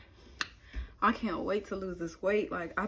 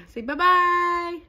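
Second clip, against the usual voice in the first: slow coaxing; 8 semitones higher, 6 dB louder, much slower than usual. Real, not acted. Coaxing baby.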